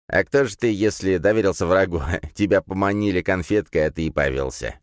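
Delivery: put-on scornful old man, chuckling; mock him with a little laugh; a touch of sneering amusement; mocking scoff. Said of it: "хмыкнул старик".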